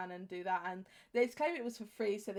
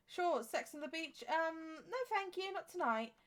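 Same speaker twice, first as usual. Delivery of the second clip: slow, higher-pitched mock bar chat; pretend bartender; 7 semitones higher than usual. Player acts out serving cocktails in the game, slow pretend bartender. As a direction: lightly play-act a bartender, drawn out. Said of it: "imagine him serving the drinks".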